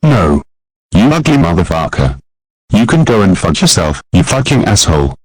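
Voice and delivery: a lightly voiced brat throwing a fit; bratty tantrum. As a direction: son cursing out his mother, tantrum. Boy cursing at mother.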